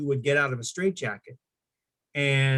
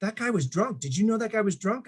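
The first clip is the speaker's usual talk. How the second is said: mock angry teacher; 7 semitones higher than usual. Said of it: "he goes".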